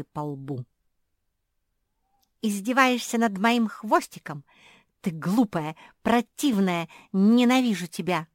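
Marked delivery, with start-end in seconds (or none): 2.4-8.3 louder, offended yelling; angry outburst. A narrator's reading. Kuki yells at her mocking friend, angry. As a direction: hurl the insults in a hurt fury.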